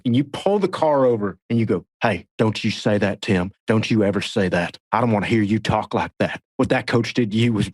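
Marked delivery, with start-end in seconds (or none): 2.0-7.7 lightly voiced stern Texan coach-booster impression; a hint of a scolding impression, pitched a bit low; Buddy Garrity. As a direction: do a low-key imitation, admonishing. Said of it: "your buddy's getting better".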